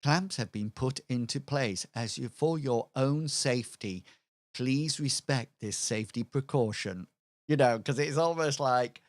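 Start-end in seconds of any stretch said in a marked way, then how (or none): 0.0-7.1 automated voice. Pretend. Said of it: "I just imagine an automated voice saying".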